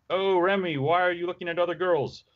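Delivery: high, hurt southern twang; accusing, jealous Rogue with a southern twang; jealous Rogue southern accent. Acted. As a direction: pout at Remy with a southern twang. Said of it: "you have the best Rogue accent".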